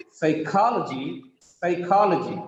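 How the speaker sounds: "Psychology" as psy-KA-lo-gy; stress third from last. Shown as a demonstration. Teacher showing the rule, "Psychology" stressed on KA. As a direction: hit KA in "Psychology". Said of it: "Third from last is ka".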